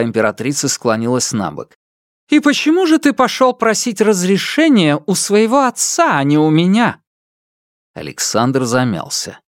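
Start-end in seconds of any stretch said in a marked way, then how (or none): 2.3-7.0 scornful empress. A narrator's reading. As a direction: scoff at him contemptuously. Empress interrogates.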